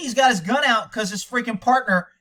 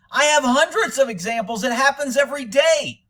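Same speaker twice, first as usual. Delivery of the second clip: emphatic, higher-pitched exasperation; fed-up insistence, pitched up; exasperated rebuttal; 5 semitones higher than usual. Real, not acted. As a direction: push back hard at the doubters. Rebutting doubters with rising exasperation.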